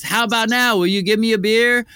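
high, loud, hammed-up challenge; mock insistent demand. Bear demanding beer after eating the lady, loud mock insistence. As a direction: push it loud as the defiant bear. Bear taunts bartender in escalating joke.

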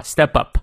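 "step up" run together, the p joining onto "up"; linked STEP UP. Shown as a demonstration. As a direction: link "step up" as one word, "ste-pup". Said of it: "然后连读啊". ("step up"连读)

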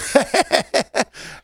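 unvoiced breathy laugh; high airy laugh. Real, not acted. Laughing at own impression.

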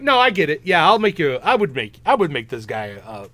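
loud, high, overeager yes; mock eager agreement. Joking that the De Niro Victor would agree, mock eager. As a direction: blurt it out like it's obvious.

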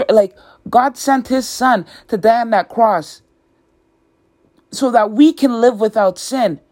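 impassioned preaching, pitch lifting as it builds; fervent preaching. Real, not acted. Podcaster urging listeners to rely on God, fervent preaching. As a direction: preach it with conviction, pressing the key words.

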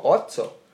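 "Otso" with a clear ts; spelled-out pronunciation. Shown as a demonstration. Man spells the word for cohost, then "Otso" with ts. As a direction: sound "Otso" out as OT-so. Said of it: "T X O".

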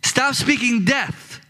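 slow, measured, commanding leader's voice; steady the crowd, slow and firm; Moses as a commanding leader. Retold or imitated. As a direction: Moses laying down the law slowly. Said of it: "this leader, steps up and says".

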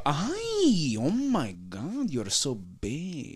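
slow, stretched-out "oh my God, you're so big"; teacher's drawn-out gush. Retold or imitated. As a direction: draw it out like an impressed teacher. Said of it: "he would say it just like that".

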